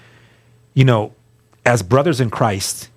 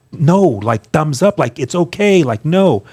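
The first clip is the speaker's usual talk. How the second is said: upbeat reassurance; 5 semitones higher, slower than usual. Retold or imitated. Reassuring mom and Felicia in court.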